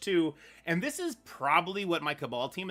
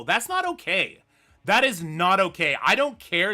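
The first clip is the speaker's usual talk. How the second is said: firm annoyance; 6 dB louder than usual. Real, not acted. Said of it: "I am so tilted by that".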